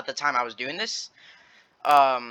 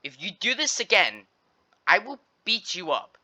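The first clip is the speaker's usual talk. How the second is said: measured, higher-pitched mock warning; retold threat; 5 semitones higher than usual. Cousin warns the bully off, retold as a deliberate threat.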